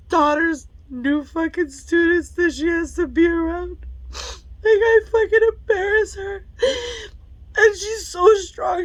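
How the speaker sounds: high tearful voice; crying. Real, not acted. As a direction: fight back sobs. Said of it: "I'm tearing up".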